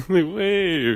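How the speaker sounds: mock diva whistle note; a singer's high note. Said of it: "like Mariah Carey".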